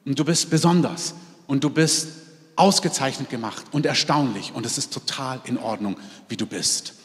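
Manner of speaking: reassure, letting it sink to near silence; tender voice of God, dropping away softly; tender reassurance. Retold or imitated. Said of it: "dass der Herr sagt".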